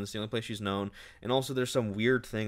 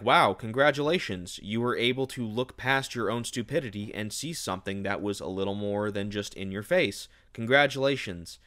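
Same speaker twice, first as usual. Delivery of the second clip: mock congratulations. Villain mocking the heroine, sarcastically congratulating. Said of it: "which is like".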